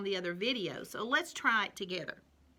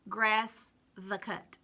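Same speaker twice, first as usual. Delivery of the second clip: puzzled, deliberate reading; slow scrambled reading; slower than usual. Shown as a demonstration. Teacher reading the scrambled puzzle slowly to children. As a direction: read the jumbled words slowly one by one. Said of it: "Remember we talked about puzzles".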